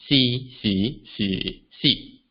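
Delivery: "si" in four tones, each started low. Shown as a demonstration. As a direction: run "si" through the tones from a low base. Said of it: "recreate the four tones ... lower starting point".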